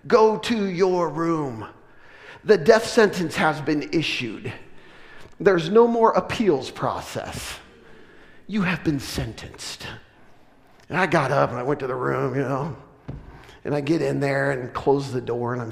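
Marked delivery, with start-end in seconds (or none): 0.1-9.9 slow, grave mock verdict; mock death sentence. Dad sending son to his room, mock grave and slow. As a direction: hand down the sentence slowly, like a judge. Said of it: "the four words you never wanted to hear".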